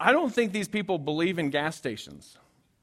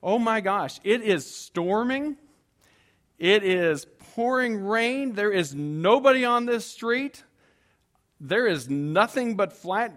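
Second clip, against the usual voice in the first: anxious; 4 semitones higher, 4 dB louder, slower than usual. Retold or imitated. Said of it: "my franticness and anxiety".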